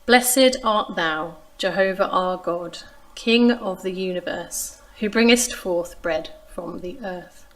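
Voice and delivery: slow, solemn reading of a blessing; slow reverent recited grace; Jewish mealtime grace. Shown as a demonstration. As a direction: intone it slowly like a prayer at table. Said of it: "goes something like this".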